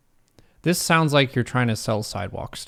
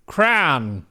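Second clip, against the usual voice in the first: mock shout; 3 semitones higher, 5 dB louder than usual. Mock shouting the one-syllable form.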